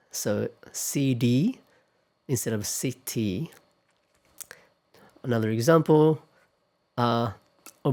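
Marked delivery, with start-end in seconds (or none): 0.7-1.6 slow "C D", T voiced like a D. Shown as a demonstration. Teacher spelling out the American flapped T. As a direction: say the middle T as a D. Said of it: "sounds a little like a D".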